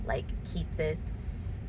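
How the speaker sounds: soft, teary and choked up; tearful. Real, not acted. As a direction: talk through real tears. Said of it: "Here come the waterworks".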